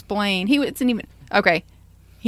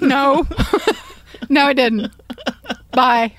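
mock curt reply; 4 semitones higher, 7 dB louder, slower than usual. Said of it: "I just wanted to be like".

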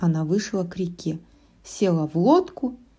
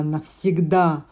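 witch voice; slower than usual. A narrator's reading. Witch gloats in spell.

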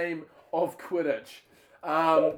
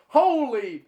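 put-on Spanish accent; 9 semitones higher, 5 dB louder than usual. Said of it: "in his sexy Spanish accent".

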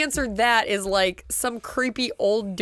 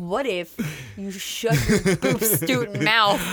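mocking put-on voice; 2 semitones lower, slower than usual.

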